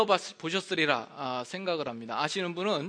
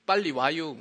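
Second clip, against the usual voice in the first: short Chungcheong line; Chungcheong dialect; 4 dB louder than usual. Shown as a demonstration. Pastor demonstrating Chungcheong dialect, Chungcheong speech. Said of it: "충청도는".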